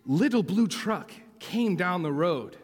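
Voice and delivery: lively storybook narration; animated children's story reading; story read-aloud. A narrator's reading. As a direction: read to small children, phrase by phrase.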